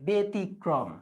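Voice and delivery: ব্যতিক্রম as "be-tikrom"; closed correction. Shown as a demonstration. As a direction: correct the first vowel of ব্যতিক্রম to a narrow e. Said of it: "ব্যতিক্রম হবে".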